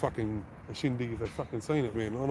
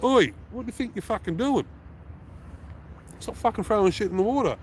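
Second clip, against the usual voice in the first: retold yell; 9 semitones higher than usual. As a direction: shout the kid down across the pier. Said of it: "and I went".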